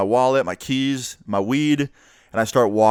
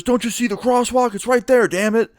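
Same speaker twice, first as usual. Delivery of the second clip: much higher, scolding cop voice; imitating an angry cop; 12 semitones higher than usual. Cop scolding the teen for missing the crosswalk, much higher voice. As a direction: play the irritated cop and point at the crosswalk. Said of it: "He goes".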